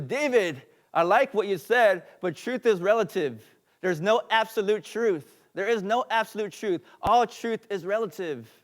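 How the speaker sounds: loud, high-pitched objection; retold shout. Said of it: "I remember he shouted out".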